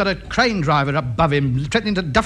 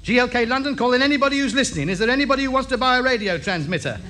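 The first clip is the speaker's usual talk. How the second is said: auctioneer; 6 semitones higher than usual. Acted. Auctions off his radio set.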